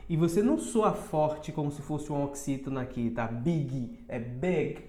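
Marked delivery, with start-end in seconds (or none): 3.2-4.8 "Big" softly, the vowel closed toward E. Shown as a demonstration. Teacher showing students a soft, closed "Big". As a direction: keep "Big" short and closed, not stressed like an oxytone. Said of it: "Tem que ter essa fechada".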